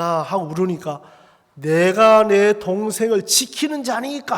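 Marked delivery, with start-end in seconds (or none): 1.5-4.4 slow, brazen denial; brazen feigned innocence. Acted. Cain answers God's question about his brother, brazenly feigning innocence. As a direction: deny it as if nothing happened. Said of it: "딱 시침이 돼".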